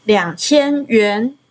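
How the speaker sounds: 两千元 drawn out slowly, syllable by syllable; slow model pronunciation. Shown as a demonstration. Teacher repeating the phrase for student practice, slow and measured. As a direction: say 两千元 at half speed for a learner.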